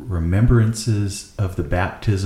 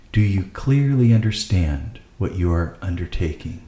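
measured, deliberate liturgical reading; solemn rite reading. Acted. Deacon addresses the parents at a baptism, formal reading. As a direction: read it out evenly, phrase by phrase.

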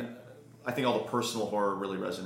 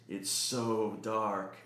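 dying whisper; 4 dB quieter, much slower than usual. Acted. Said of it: "it whispered in a cracked and dying voice".

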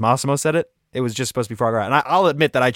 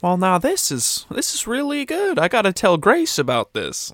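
Lily Tomlin; 5 semitones higher than usual. Acted. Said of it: "Lily Tomlin is our guest judge".

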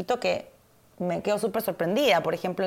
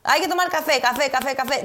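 higher, louder mock command, café repeated like a drill; mock bossy insistence; 5 semitones higher, 4 dB louder than usual. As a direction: hammer the café over and over, half joking. Mocking imposed daily coffee. (insistencia burlona y mandona)

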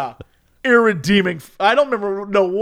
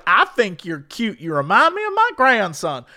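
lightly voiced Southern granny; old Southern lady; 3 semitones higher than usual. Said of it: "old Southern lady who's just".

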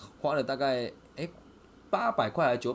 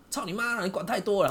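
imitated angry swearing; 10 semitones higher, 5 dB louder than usual. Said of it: "他就很气".

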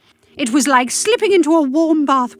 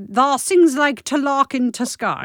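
put-on Yorkshire accent; 3 semitones higher than usual. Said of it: "sort of Yorkshire".

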